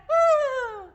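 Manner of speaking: loud, very high whinnying whoop; zebra bray. Shown as a demonstration. Teacher leading zebra verse, loud high bray. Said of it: "hear the zebras braying".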